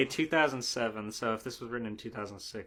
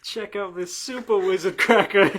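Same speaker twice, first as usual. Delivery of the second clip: higher, louder hammed-up kid; mock wizard boy; 7 semitones higher, 12 dB louder than usual. Friend voices the fanfic boy, hammed-up and loud. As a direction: ham it up like a silly boy.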